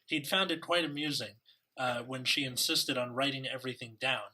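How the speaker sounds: put-on reading with a British accent. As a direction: read it like an English gentleman. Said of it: "I can either speak in a British accent".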